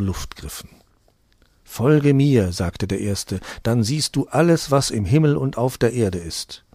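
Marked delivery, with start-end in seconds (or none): 1.6-2.5 loud demon voice. Acted. First demon speaks to Mantau. 3.6-6.6 loud demon voice. Acted. First demon tempts Mantau.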